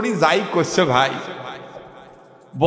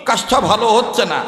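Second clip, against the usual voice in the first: mock angry protest; slower than usual. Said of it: "রাগ করি উঠিয়া ডাক দিয়ে বলে".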